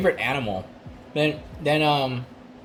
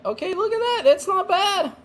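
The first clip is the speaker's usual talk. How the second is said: pleasantly surprised. Real, not acted.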